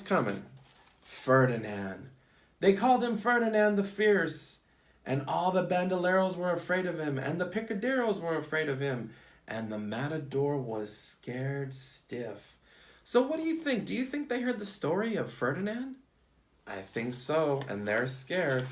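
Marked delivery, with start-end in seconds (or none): 2.6-12.6 storybook read-aloud for a class; picture-book storytime voice; reading to children. Acted. 13.0-16.0 excited. Real, not acted. Teacher quizzing kids, excited.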